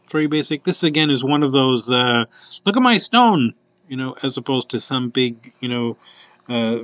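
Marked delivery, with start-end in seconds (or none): 2.7-3.5 higher, louder playful brag; light mocking show-off voice; mock boastful. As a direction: show off like a proud pendant. Pendant personified, bragging about stone.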